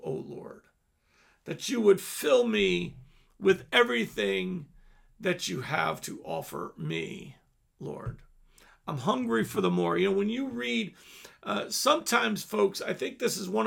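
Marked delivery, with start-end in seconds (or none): 0.0-10.0 humble prayer. Shown as a demonstration. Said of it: "humble yourself and go".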